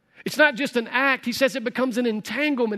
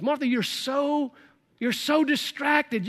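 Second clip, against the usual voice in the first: slow and higher, tenderly chiding Martha; gentle chiding; 4 semitones higher, slower than usual. Retold or imitated. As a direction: draw it out, gently pleading with her.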